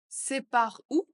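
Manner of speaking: lively question. Shown as a demonstration. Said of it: "phrase modelled twice".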